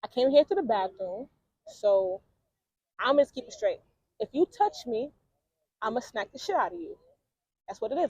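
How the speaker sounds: a hint of a calm threat; quoted calm threat. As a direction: lay down the rule quietly. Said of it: "she was like".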